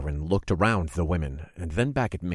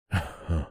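menacing chuckle; 4 dB quieter than usual. Acted. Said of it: "he chuckled".

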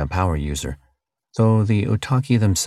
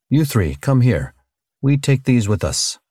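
commanding; 5 semitones higher than usual. Acted. Teslaver ordering the slaves.

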